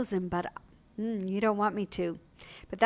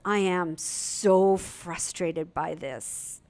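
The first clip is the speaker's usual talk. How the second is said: frustrated daughter; 3 semitones lower, much slower than usual. Retold or imitated. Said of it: "And she goes".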